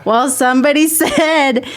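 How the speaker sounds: mocking impression broken by laughter; imitating him. Listener imitating him coming home after work, teasing through laughter. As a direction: laughingly replay a coworker's grievance. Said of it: "It's like I'm listening to him come after work".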